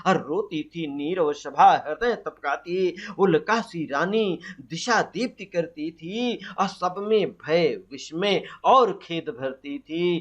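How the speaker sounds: slow, measured recitation of verse; poem recitation. Acted. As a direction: recite the stanza deliberately, line by line. (धीमी लय में कविता पाठ)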